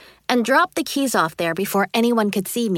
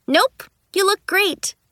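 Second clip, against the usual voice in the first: fake sweet; 9 semitones higher than usual. Lying sweetly to teacher.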